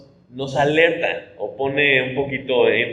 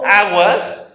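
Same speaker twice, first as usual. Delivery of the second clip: "aguas" a bit higher and louder, rising; raised rising "aguas" warning; 6 semitones higher, 5 dB louder than usual. Shown as a demonstration. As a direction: call "aguas" as a lighter alert. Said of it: "con un cierto tono".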